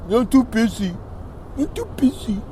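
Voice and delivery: high dismissive mock voice of Patrick; mock brush-off. Mocking Patrick's excuse when asked for a spot, high and dismissive.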